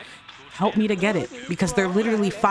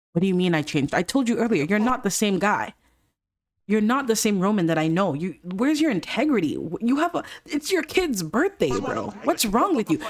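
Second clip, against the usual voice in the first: pitched-up accusing rant; mock confrontation; 4 semitones higher than usual. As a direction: call out a friend in disbelief. Friends arguing, the speaker confronts Roman.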